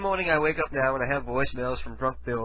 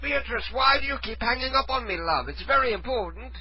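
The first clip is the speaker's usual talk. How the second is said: high-pitched British prank-call voice; fake British accent; 9 semitones higher than usual. Prank caller pressing the woman not to hang up, fake British accent. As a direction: plead in a put-on British accent. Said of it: "fake British accent".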